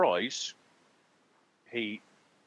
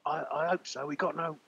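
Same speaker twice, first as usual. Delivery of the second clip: grumbling barman; 7 semitones higher than usual. Acted. Barman complains about the soup.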